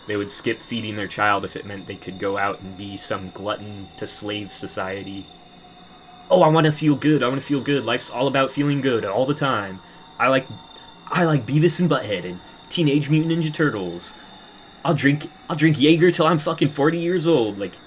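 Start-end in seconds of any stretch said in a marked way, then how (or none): 6.3-17.6 put-on high, loud, childish whine; mock boomer voice. Mocking pleasure-seeking parents, a high loud whiny impression. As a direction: sneer it like a self-indulgent grown man.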